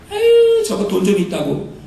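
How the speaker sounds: jealous sighing. Retold or imitated. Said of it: "이렇게 시기합니다".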